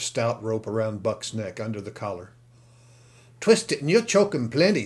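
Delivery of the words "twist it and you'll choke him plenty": higher, louder rough man; a coarse crook giving advice; rough kidnapper voice. Acted. Kidnapper instructs about the rope.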